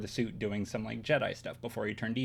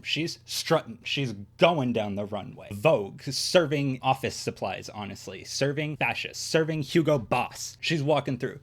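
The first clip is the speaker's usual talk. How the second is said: hyping up Tala strutting down the runway; hyped runway commentary; 4 dB louder than usual. Real, not acted. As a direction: cheer her on like a fashion show. Hyping Tala's runway walk.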